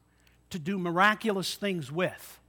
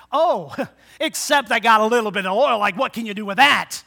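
laughing widow; 7 dB louder than usual. Retold or imitated. Widow voiced, laughing at little oil.

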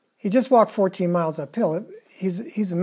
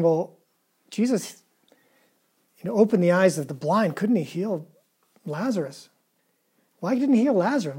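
voicing the grieving townspeople, higher and pleading; mock voices of doubt; 4 semitones higher than usual. Preacher voicing grieving townspeople, high and pleading. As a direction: ask it like the doubters crying where is Jesus.

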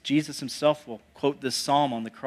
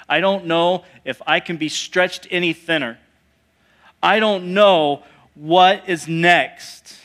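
at breaking point; 3 dB louder than usual. Acted. Disciples struggling through the storm, at breaking point. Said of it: "they've been struggling. They've been going through it".

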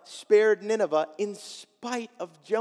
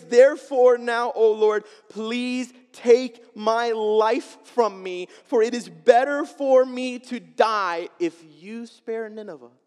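despairing prayer; 3 semitones higher, 6 dB louder than usual. Retold or imitated. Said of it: "He prays".

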